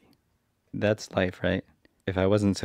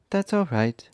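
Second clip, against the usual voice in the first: stork voice; 7 semitones higher than usual. A narrator's reading. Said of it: "said the stork".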